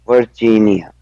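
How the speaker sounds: Virginia sounded out carefully in parts; careful learner's Virginia, split by syllable. Shown as a demonstration. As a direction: repeat Virginia in three measured beats. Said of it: "Break it out and then say three".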